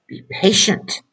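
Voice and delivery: breathy whisper of counsel; hushed, earnest "be patient"; whispered advice. Acted. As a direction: lean in and whisper it.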